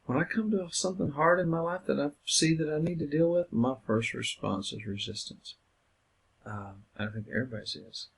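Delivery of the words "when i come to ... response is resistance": higher, friendly confiding tone; lightly confiding counsellor voice; friendly self-disclosure. Shown as a demonstration. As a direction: open up casually to the client.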